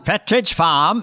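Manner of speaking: New England accent. Shown as a demonstration. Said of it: "That's the way you do it".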